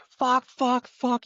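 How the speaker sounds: high, pained swearing after a sting; mock pained yelps of fuck; frantic swearing. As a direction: swear it out, stung and panicking. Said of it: "she fucking was like".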